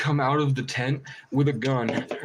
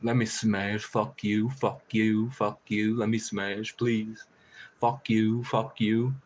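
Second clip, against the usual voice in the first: taunting crow voice; much slower than usual. Retold or imitated. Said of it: "he'd peek his head out and go".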